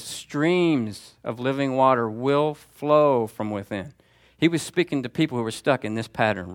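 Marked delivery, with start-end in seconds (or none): 0.0-3.9 slow deliberate proclamation. Shown as a demonstration. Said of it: "No, he says".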